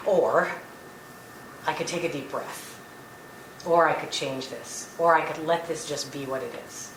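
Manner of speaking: calm self-talk. Shown as a demonstration. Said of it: "just stop and say".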